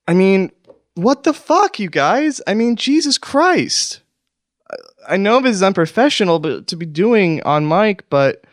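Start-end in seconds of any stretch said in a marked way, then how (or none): 0.1-4.0 angry outburst. Acted. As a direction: blow up at your absent friends. Angry outburst at absent cohosts.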